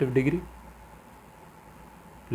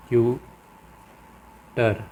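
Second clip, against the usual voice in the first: drawn-out example word; much slower than usual. Shown as a demonstration. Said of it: "जैसे कि देखें".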